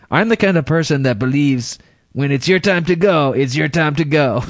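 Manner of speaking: lightly put-on accent for a quote; Cheech. Host reads a crash survivor's quote, mild Cheech-like accent. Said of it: "Sounded a bit like Cheech".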